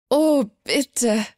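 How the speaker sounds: lightly scornful, drawn-out dismissal; a touch of mockery; mocking. A narrator's reading. Mirror image brushes off Liora's doubt, mildly mocking. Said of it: "verzog spöttisch die Lippen".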